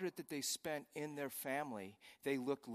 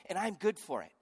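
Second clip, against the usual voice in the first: booming voice of God; 7 semitones higher, 10 dB louder than usual. Acted. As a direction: declare it as God, with full authority. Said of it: "says God".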